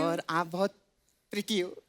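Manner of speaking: low, halting flattery; bashful compliment. Acted. Boy tells the actress she is pretty, bashful and halting. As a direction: hold back before the last words, shyly.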